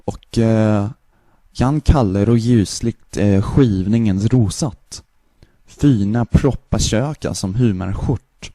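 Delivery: Swedish-sounding gibberish; fake Swedish. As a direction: babble like Swedish. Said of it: "the, the Swedish".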